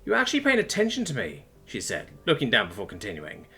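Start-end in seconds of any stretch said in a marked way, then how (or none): 0.0-1.4 high, weepy self-reproach; blubbering. A narrator's reading. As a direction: confess tearfully, pitch high. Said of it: "began to blubber anyway".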